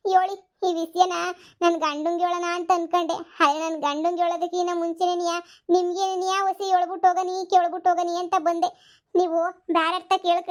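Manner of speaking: hammed-up tearful pleading, mostly in her own voice; milk the sorrow for the camera; overacted grief. Sister-in-law fakes grief to her brother-in-law, overacted sobbing plea. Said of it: "ನೂರು ರೂಪಾಯಿ acting ಮಾಡಿ".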